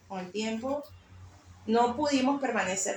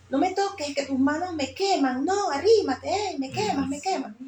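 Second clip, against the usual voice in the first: acted-out distressed cry, high and louder; imitating someone burned by a touch; agitated plea; 6 semitones higher, 5 dB louder than usual. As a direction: recoil and beg them off. Acts out man's anguished plea.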